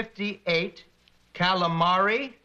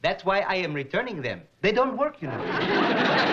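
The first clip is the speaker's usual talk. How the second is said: lightly voiced comic traveler; turbaned traveler from India; slower than usual. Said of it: "A smiling barefoot gentleman wearing a turban".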